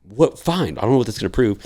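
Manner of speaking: imitating an irate superior giving in; retold exasperation. Irate superior grudgingly agrees, retold.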